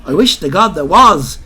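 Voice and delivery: a bold Dublin widow brushing off the officer; gutty Dublin voice. Retold or imitated. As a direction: belt it out like a Moore Street dealer. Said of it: "says she in the guttiest voice you ever heard".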